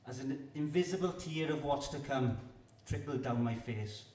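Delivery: measured spoken-word poetry delivery; poem recital. Acted. Poet performing for a festival crowd, earnest recital. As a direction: perform it like a live poetry reading.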